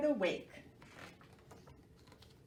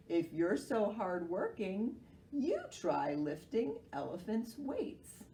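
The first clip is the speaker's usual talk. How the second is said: sleepy sloth voice; slower than usual. Acted. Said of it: "he said".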